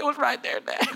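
put-on a small boy asking timidly; little child voice. Son pointing at the spot for Dad.

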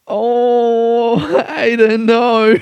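high, pleading "oh Aiden no"; girlfriend's dismay. Retold or imitated. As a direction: imitate her gentle high protest. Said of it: "She's just looking at me like".

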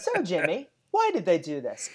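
mock morning show host; bickering voices in one. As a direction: play a cheesy TV host. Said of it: "let me do both voices".

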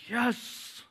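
a high, delighted yelp of yes; overjoyed dad shouting yes; thrilled yes. Retold or imitated. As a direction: burst out with joy at her choice. Dad thrilled daughter picks Taekwondo.

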